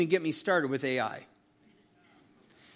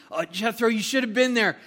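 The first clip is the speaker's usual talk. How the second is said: Moses bursting to tell it all, climbing higher; excited testimony; 4 semitones higher than usual. Retold or imitated. Moses to his father-in-law, retelling God's deeds, building excitement.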